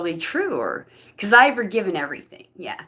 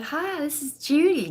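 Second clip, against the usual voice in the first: put-on voice; 9 semitones higher than usual. Pretending to be Judy on phone.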